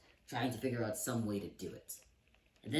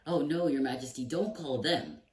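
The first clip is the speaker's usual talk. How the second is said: put-on pleading page boy; 5 semitones higher, 8 dB louder than usual. Page boy begging the king.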